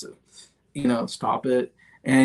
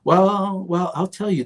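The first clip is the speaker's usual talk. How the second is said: much higher, apologetic mock president voice; sheepish president; 7 semitones higher, slower than usual. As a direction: squeak up to the last word like a guilty child. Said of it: "And he's going through".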